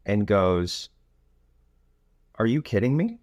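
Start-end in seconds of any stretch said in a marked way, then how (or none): 2.4-3.2 mock disbelief, higher pitch; incredulous wife. Wife answers husband's bad news, incredulous. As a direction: imitate a disbelieving wife, pitched up with a rising end.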